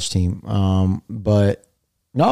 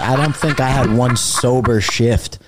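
laughing; slower than usual. Real, not acted. Confessing getting high on shift.

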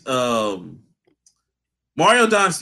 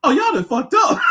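mock villain taunt; 7 semitones higher than usual. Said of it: "Wesker was just like".

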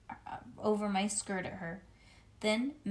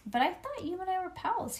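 principal's voice; 11 semitones higher than usual. A narrator's reading.

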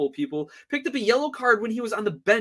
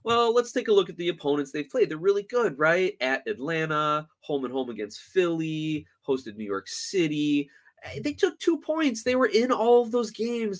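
mock optimistic fan. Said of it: "Here, here's the glass half full approach to the Chicago Fire".

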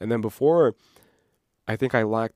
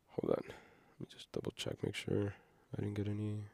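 muttered aside; 13 dB quieter than usual. Real, not acted. Host checking the date to himself, muttered. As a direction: talk quietly to yourself while checking.

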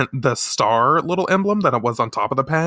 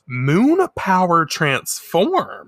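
slow, higher incantation; mild mock shout; 5 semitones higher, much slower than usual. Artemis tells Minako to transform, mild drawn-out shout. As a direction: draw out the transformation call, slightly raised.

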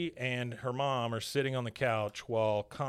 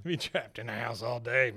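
slow creepy mock voice; hammed-up creep, slow and deliberate; Carl; slower than usual. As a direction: drag it out like a leering oddball. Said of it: "Reminds me of Carl from, uh, Sling Blade".

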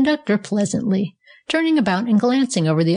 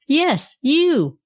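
roaring; 8 semitones higher than usual. A narrator's reading. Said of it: "roared the hippopotamus".

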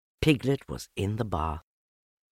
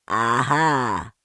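Piglet voice; 3 semitones higher, 6 dB louder than usual. A narrator's reading. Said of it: "as well as he could after his terrifying journey".

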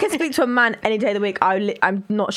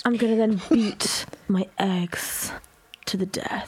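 sultry cooking host; 2 semitones lower, 4 dB quieter, slower than usual. Pretend. Continuing sexy cooking parody.

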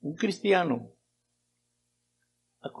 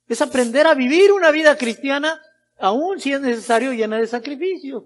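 raised, higher preaching voice; forceful preaching; 7 semitones higher, 8 dB louder than usual. Real, not acted. Preacher urging the congregation to live the Christian life, forceful preaching. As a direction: press it home to the congregation.

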